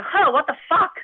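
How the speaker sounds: high, loud retold outburst; mock parental cursing. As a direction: curse like an exasperated parent, imitating. Imitating her parents' cursing.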